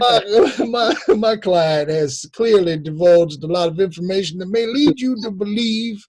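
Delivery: grand put-on defence attorney; mock Southern lawyer. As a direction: address the jury as a folksy lawyer. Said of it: "that's how his lawyer sounds".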